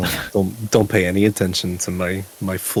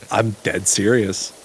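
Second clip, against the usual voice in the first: "dead serious" slowed right down; slow insistence; slower than usual. Real, not acted. Storyteller insisting to disbelieving friends, slow and deliberate. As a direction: repeat it slowly to insist.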